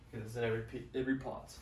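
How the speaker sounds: put-on a light, passing British accent. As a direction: slip briefly into a British accent. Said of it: "I did a British accent".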